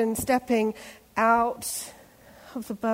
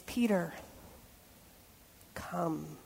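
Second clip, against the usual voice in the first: soft, much softer gentle call; Jesus calling; 5 semitones lower, 11 dB quieter, slower than usual. Retold or imitated. Jesus on the water calling Peter, soft and gentle. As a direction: softly beckon Peter. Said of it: "Jesus says".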